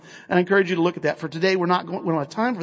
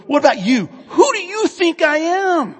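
pointed questioning; 8 semitones higher than usual. Acted. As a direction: put the question straight to them, stretching the end. Voices Jesus questioning the disciples.

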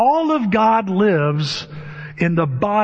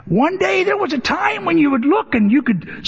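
high Irish-accented storytelling, imitated; fond imitation of an Irish preacher, pitched high; 10 semitones higher than usual. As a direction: carry on the Irish preacher impression. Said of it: "is how he talked".

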